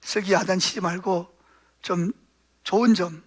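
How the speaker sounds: low, soft suggestion to a spouse; soft couple's resolve. Retold or imitated. Parents agreeing together to praise their son, softly. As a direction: gently propose a new plan to your husband. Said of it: "이 부부가 그때부터 서로는".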